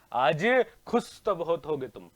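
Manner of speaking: slow, stretched movie-line delivery; drawn-out film dialogue. Acted. Teacher repeats a film line to students, slow and theatrical. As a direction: draw the famous line out slowly, with voice.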